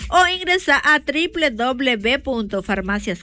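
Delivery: ad read. Acted. Host reads live pharmacy ad.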